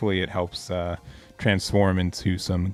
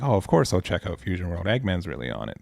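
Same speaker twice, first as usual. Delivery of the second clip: sarcastic. Retold or imitated. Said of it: "this is sarcasm".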